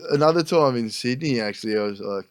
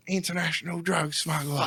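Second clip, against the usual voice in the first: customs lady; 4 semitones higher, 10 dB quieter than usual. Retold or imitated. Acted customs lady accusing.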